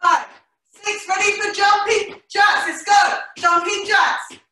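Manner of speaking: energetic shouted cue; calling out. Real, not acted. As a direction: pump up the class.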